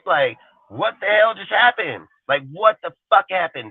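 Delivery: real disbelief, voice shooting way up; incredulous disbelief. Real, not acted. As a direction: act like you can't believe what you heard. Incredulous at old talk.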